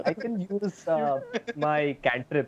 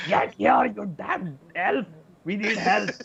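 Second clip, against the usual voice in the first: in-character yell; 7 semitones higher, slower than usual. Acted. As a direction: shout for help across the cave. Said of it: "I'll yell that".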